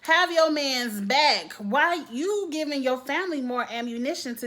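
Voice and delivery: loud, high scolding at a friend; exasperated telling-off. Acted. Telling a woman to back her man, loud exasperation. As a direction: raise your voice, stretch the words in exasperation.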